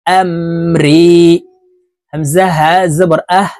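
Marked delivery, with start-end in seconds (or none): 0.1-1.1 আমরি: the রি stretched long, one alif; drawn-out madd. Shown as a demonstration. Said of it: "এক আলিফ টেনে পড়ব". (আমরি শব্দে রি এক আলিফ টেনে)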